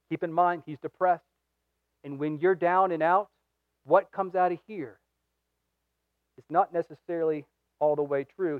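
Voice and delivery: soft, low confiding aside; quiet aside. Real, not acted. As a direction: drop the voice and confide. Softer aside on depression.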